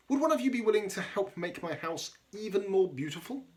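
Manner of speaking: gently voiced crab pleading for help; hopeful Hermit Crab. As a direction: ask like a hopeful little crab, slowing at the end. Hermit Crab's pleading requests.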